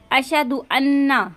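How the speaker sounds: अशहदु अन्ना with the न doubled; the common mistake: stress on अन्ना; wrong way. Shown as a demonstration. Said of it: "तो ये गलत है". (गलत उच्चारण)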